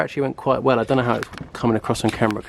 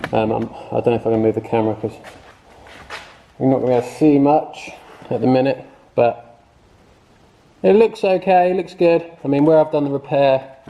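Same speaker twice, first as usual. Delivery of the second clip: muffled behind a mask; talking under a face mask; through a face mask. Real, not acted. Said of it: "I'm just talking under my mask".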